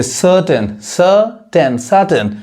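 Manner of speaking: सर्टेन as "suh-ten", no r; silent r. Shown as a demonstration. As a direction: drop the r in सर्टेन. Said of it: "आर नहीं पढ़ाता है".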